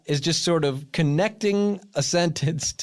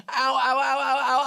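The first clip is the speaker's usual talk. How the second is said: yelping in pain; little cries of pain; pained ows; 9 semitones higher than usual. Real, not acted. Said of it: "clothespin on my tongue".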